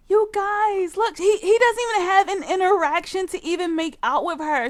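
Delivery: high, fast, loud complaint; exasperated rant; indignant outburst. Real, not acted. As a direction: rush it out, outraged.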